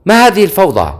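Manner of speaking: narrated royal outburst, not full volume; mild mock shout. A narrator's reading. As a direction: lift the pitch sharply like an indignant king. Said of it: "صاح الملك".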